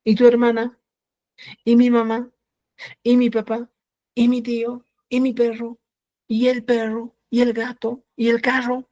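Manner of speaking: each question starting high with a rising tune; asking questions. Shown as a demonstration. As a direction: ask each one brightly and high, like a real question. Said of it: "estás en la calle y le dices". (preguntas con entonación alta y ascendente)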